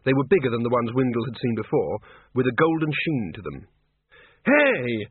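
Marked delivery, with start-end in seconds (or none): 4.4-5.1 higher, drawn call; mild yell to draw attention. A narrator's reading. Windle calling off the attackers, a restrained yell. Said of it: "he yelled".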